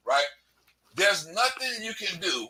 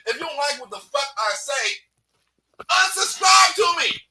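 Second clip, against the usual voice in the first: angry rant; 3 semitones higher than usual. Real, not acted. Ranting at haters.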